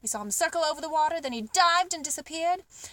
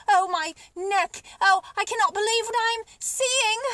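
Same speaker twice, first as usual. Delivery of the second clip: astonished joy; 6 semitones higher, 4 dB louder than usual. Acted. Giraffe overwhelmed by food.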